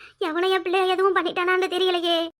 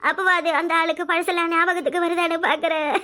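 bitter weeping. Acted. Mother weeping over the father.

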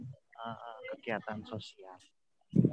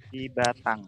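louder, repeated clearly; to someone hard of hearing; 3 semitones higher, 9 dB louder than usual. Real, not acted. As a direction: say it again for a bad connection. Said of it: "Di mana?".

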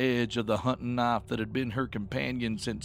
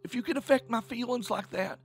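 high-pitched, upset accusation, halting then rushing; angry; 9 semitones higher than usual. A narrator's reading. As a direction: confront her, stumbling over the words. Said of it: "Tish had said angrily".

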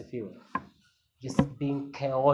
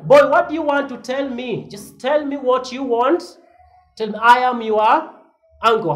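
lightly voiced exasperated elder, loud; just tell me what you want, mildly stern; puzzled elder; 9 semitones higher, 7 dB louder than usual. Father answering the fawning boy, a touch loud. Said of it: "and I'm wondering".

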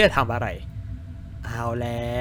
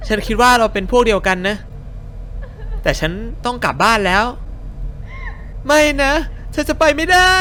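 put-on high-pitched polite young woman; polite lady character; 9 semitones higher than usual. Streamer voicing a woman asking the crying girl, high and girly. Voices the two girls talking.

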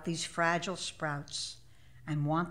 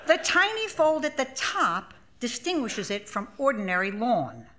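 words said through laughter, pitched higher; laughing; 5 semitones higher, 4 dB louder than usual. Real, not acted. Narrator mocking the grass-counting task, laughing throughout. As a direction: laugh as you tell it, getting louder.

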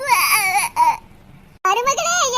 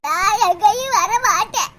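much lower, slow sulky no; stubborn refusal; 9 semitones lower, slower than usual. Acted. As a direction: dig in your heels, lightly sulking. Daughter refuses hospital.

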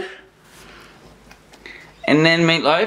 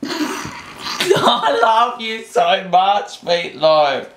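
slow loving coo; much slower than usual. Real, not acted. Cooing to puppy.

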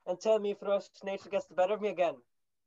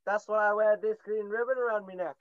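put-on Irish accent; 2 semitones higher than usual. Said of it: "That sounds Irish".

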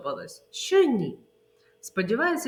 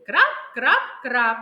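loud drip sounds; 2 semitones higher, 5 dB louder than usual. Shown as a demonstration. Teacher repeating the rain rhyme with children. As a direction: drum the rain out loudly. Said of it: "Давайте ще раз проговоримо".

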